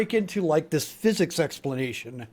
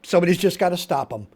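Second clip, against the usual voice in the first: dead serious; 4 dB louder than usual. Acted. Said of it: "in all dead seriousness".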